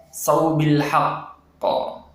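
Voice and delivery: slow recited saubil haqqo; correct so in a phrase. Shown as a demonstration. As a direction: recite it slowly, lips flat. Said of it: "harusnya so". (bacaan saubil haqqo perlahan)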